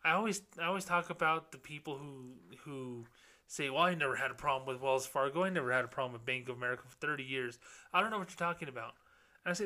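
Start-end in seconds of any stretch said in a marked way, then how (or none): 3.7-8.9 rattled off quickly, imitating a dismissive customer; mock dismissive customer. Satisfied bank customer waving away another's complaint, imitated as fast and dismissive.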